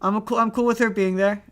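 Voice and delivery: high, loud, quick backpedal; excited protest. Real, not acted. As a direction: protest loudly and fast.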